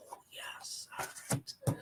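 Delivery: hushed aside; whispering. Real, not acted. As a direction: whisper it to yourself. Aside under breath.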